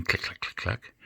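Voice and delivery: soft, quick imitated needle clicks; quiet little mechanical clicking; knitting-needle clicks. Shown as a demonstration. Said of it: "the old nanny's knitting needles".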